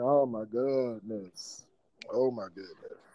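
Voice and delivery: slow, drawn-out mild mock dismay; weary exasperation. Dad retelling his baby's yelling and crying, weary exasperation. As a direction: sigh it out like a worn-down parent, lightly.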